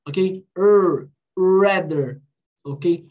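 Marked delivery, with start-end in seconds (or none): 0.6-2.2 "Er" as a bare curled R, then "rather"; strong English R in "Er, rather"; retroflex R sound. Shown as a demonstration. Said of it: "Olha meu R".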